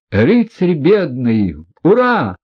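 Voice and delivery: high, loud ecstatic shout; rapturous cheer. A narrator's reading. Kolya cheers the prince in rapture. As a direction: cheer with delight. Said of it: "крикнул в упоении Коля".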